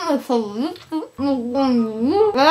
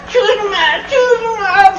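Kiko voice; 8 semitones higher, 6 dB louder, much slower than usual. Retold or imitated. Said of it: "hacía chusma".

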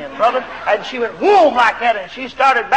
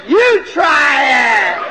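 retorting shout; 3 semitones higher, 5 dB louder, much slower than usual. Retold or imitated. Snapping back at the bellowing preacher.

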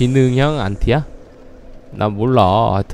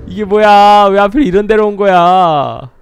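louder, higher baffled outburst; surprised; 5 semitones higher, 5 dB louder than usual. Real, not acted. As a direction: blurt out in disbelief. Startled by the arena.

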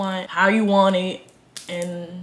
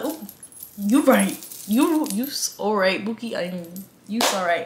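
sweetly agreeing. Retold or imitated. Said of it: "I was like".

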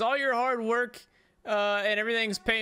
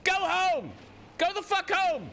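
mock angry; 7 semitones higher than usual. Real, not acted. Angry at rival driver.

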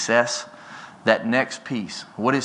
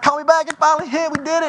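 very high, louder retold excitement; elated phone message; 4 dB louder than usual. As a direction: re-enact blurting out the big news. Retells elated message to partner.

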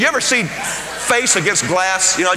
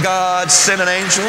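slowish earnest prayer; praying. Retold or imitated. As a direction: ask God for an angel. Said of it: "So I'm praying".

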